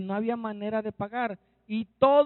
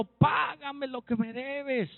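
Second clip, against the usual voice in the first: mock throttling demand, pitched up; demanding creditor; 4 semitones higher, slower than usual. Servant chokes his fellow servant over a debt, mock demand. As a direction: press for payment in a raised pitch without shouting. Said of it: "le ahogaba diciendo".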